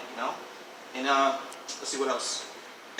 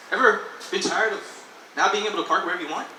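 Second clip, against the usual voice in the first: hard sell ad; 3 semitones higher, 4 dB louder than usual. Pretend. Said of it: "say it like an advertisement".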